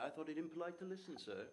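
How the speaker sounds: a hint of a dry, proper servant; a butler answering his master; as Lane. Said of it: "Oscar responds as Lane".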